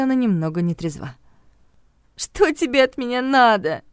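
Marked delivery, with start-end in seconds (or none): 2.2-3.8 high, slow, hostile demand. A narrator's reading. Tearful drunk friend answers the phone, hostile. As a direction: snap it at the caller, unwelcoming. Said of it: "Её голос звучал враждебно".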